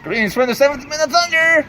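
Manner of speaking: flat robotic monotone; deadpan announcer drone. Pretend. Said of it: "talk in a monotone voice like that".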